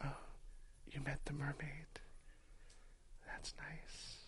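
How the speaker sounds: very quiet, hushed whisper. Retelling a fantasy ASMR video's inn scene: imitating a quiet whisper. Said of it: "she whispers quietly".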